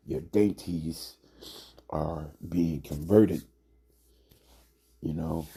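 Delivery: usual speaking voice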